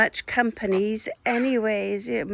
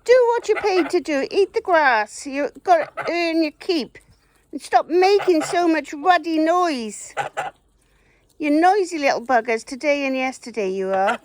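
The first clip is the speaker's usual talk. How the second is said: loud, higher telling-off; scolding the birds; 4 semitones higher, 5 dB louder than usual. Real, not acted. Woman scolds her noisy geese, loud and high. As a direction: give the geese a loud, raised-pitch scolding.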